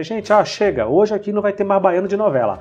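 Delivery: raw Bahian talk. Retold or imitated. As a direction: drop the soap act and swear like a real Baiano. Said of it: "eles fazem uma brincadeira com isso".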